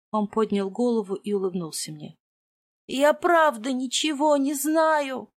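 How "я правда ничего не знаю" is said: high, slow pleading whine; whining. Acted. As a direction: whimper it out like a beaten man. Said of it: "скулил Мракен".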